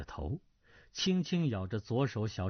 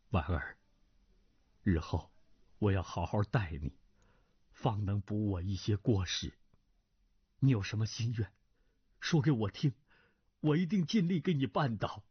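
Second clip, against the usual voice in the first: lower, subdued voice of a middle-aged lord; older nobleman, gentle; 4 semitones lower than usual. Acted. Duan Zhengchun voice. (低沉温和的中年男子)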